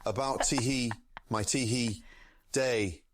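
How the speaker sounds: lightly voiced chef, tee hee between words. Streamer answers a chat request in light chef voice. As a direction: keep a tee hee going. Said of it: "please add tee hee at the start of every sentence".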